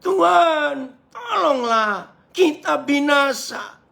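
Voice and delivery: high, slow desperate wail; acted panicked plea for rescue; emotional, fearing death. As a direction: cry out in drawn-out terror. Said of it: "Ini mereka emosi karena takut mati".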